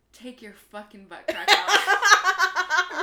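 hammy slow shouted order, laughing; mock yelled demand.

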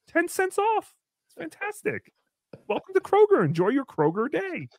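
loud chirpy store greeter; hammed-up greeter welcome; Chad greeter. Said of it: "he's like".

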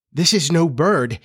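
a touch of fright; scared voice. Acted. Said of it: "he said in a scared voice".

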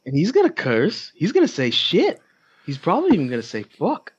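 put-on comic Boston accent, swooping up high; Texas Bostonian accent. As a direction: keep up the hammed-up Bostonian. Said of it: "in my Texas Bostonian accent".

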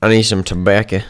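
put-on southern accent. Shown as a demonstration. Trying accents out for improv, southern accent. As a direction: say it with a southern twang. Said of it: "What's the southern accent?".

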